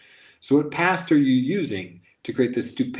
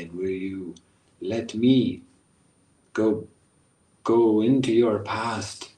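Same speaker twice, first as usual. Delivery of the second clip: guided meditation. Acted. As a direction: lull them into their past.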